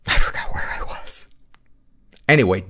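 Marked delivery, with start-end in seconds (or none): 0.1-1.3 a quick whispered aside. Real, not acted. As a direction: whisper it to yourself, lost. Lost track mid-reading.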